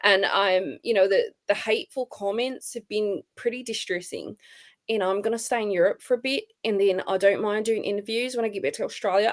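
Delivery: lightly put-on socialite accent; hint of an heiress accent; Paris Hilton. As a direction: imitate her statement in a mock accent. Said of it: "I sound like Paris Hilton".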